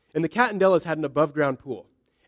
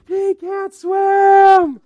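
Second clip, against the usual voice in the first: retold panicked shout; 11 dB louder, much slower than usual. Sister yelling child can't swim.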